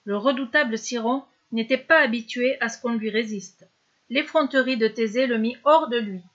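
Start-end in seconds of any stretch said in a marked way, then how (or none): none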